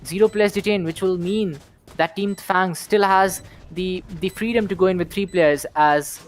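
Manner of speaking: brisk live play-by-play; esports caster. Acted. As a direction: call the round like a caster.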